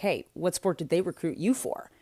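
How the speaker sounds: mock condescending, smug, demeaning, belittling tone. Retelling what a classmate's dad asked: imitating a smug, demeaning question. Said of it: "he said it in a very smug and demeaning way".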